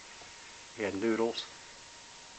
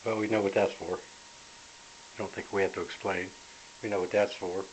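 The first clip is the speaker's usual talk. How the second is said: stuffed up; 2 semitones lower, 4 dB quieter than usual. Real, not acted. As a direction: sniffly voice with a head cold. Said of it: "Sorry about the sniffling".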